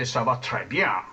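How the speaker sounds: mimicked American-accented French, low in pitch. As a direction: say très with an American R. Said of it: "They, they say".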